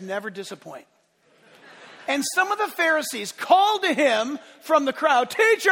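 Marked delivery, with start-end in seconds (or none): 5.3-5.7 high, loud sneering "Teacher!"; shrill-free mock sneer, loud and high; mocking Pharisee call. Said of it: "I have to say it that way 'cause I don't like them".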